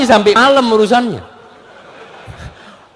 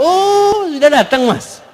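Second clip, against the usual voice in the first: high, offhand greeting without looking up; a distracted wife greeting her husband, mock casual; indifferent wife; 8 semitones higher, slower than usual. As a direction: toss it off while busy on the phone. Wife barely looking up from phone.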